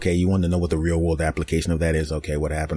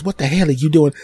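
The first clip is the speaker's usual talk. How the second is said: high, loud mock yell on "hell"; angry neighbour lady; 9 semitones higher, 6 dB louder than usual. Lady catching someone at her car, mock angry yell. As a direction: bark it at the intruder.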